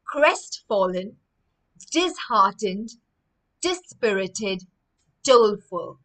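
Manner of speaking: slow, clear vocabulary drill; slow model reading. Shown as a demonstration. Teacher models words slowly for children to repeat, slow and clear. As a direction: say each word slowly for the class to repeat. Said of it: "please repeat after me".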